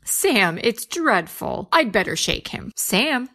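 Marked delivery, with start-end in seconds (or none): 2.8-3.3 calling out. Acted. Wife calls her slumped husband at the table, rising alarm. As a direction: call his name to wake him.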